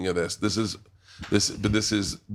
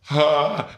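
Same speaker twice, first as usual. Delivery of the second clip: high, loud gag; mock disgusted gasp; 5 semitones higher, 5 dB louder than usual. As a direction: react with a hammed-up retch. Acting out own disgusted reaction.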